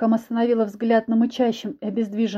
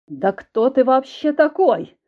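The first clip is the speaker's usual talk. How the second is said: slow, louder roar, pitched up; 3 semitones higher, 4 dB louder, slower than usual. Acted. Husband roars at the stranger, slow and loud. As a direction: bellow it out in fury. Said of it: "Заревел мой муж".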